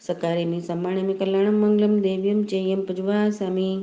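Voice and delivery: even, chant-like prayer recitation. Acted. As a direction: recite sacred verses in a steady tone.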